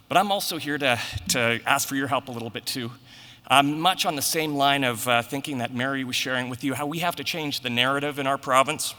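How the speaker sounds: breathless after running up stairs; out of breath. Real, not acted. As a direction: talk while catching your breath. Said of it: "I'm out of breath now".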